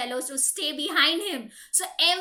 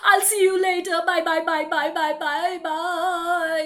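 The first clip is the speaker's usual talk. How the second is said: hurried, nervous goodbye, laughing a little; hammed-up frightened owl; scared owl. Owl to the mouse, making a scared excuse. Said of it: "He's literally shivering".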